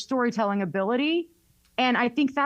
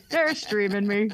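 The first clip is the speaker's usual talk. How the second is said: slow delighted repeat. Retold or imitated. Host repeating it slowly, tickled that Southern callers stream her. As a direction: draw out They're streaming me, savoring it. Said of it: "And I'd be like".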